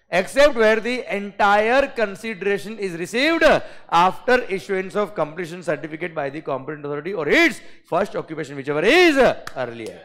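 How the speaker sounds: slow, loud, emphatic legal reading; deliberate dictation. Shown as a demonstration. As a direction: read each clause out loud and slow. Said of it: "जानबूझ के मैंने fast बोला बेटा".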